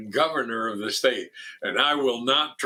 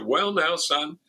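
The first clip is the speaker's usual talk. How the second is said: a hint of a folksy governor, higher; Haley Barbour; 6 semitones higher than usual. Governor cautioning the eager foundation president, lightly imitated. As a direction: lightly imitate a governor addressing a younger man. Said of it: "And he said".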